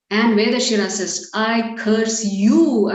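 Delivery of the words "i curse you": very slow, drawn-out pronouncement; acted retaliatory curse. Angry sage curses his rival back, slow and emphatic. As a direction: stretch each word of the curse.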